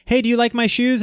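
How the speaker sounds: high, bright mock girlfriend voice; girlfriend asking. Girlfriend showing off her shoes, imitated high.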